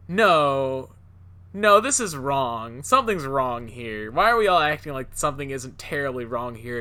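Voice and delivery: loud, incredulous objection; alarmed protest. Retold or imitated. Story's protagonist objecting to everyone in the car, loudly alarmed. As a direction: protest loudly, acting out the one person who objects.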